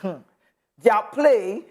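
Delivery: a light laugh through the words. Real, not acted. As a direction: chuckle while you repeat it. Laughs while repeating a word.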